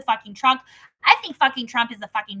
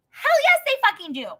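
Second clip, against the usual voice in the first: emphatic outburst; 10 semitones higher than usual. Real, not acted. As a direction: break into the reading with force. Outburst into reading.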